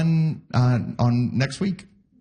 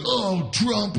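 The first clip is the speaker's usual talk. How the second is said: mock concerned people; 7 semitones higher than usual. Worried people, mocked.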